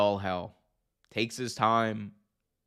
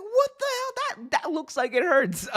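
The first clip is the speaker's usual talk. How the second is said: much higher, squeaky disbelief; shocked reaction. Retold or imitated. Watching the stairs spot, squealing in shock. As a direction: yelp it like you can't believe it. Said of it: "I was like".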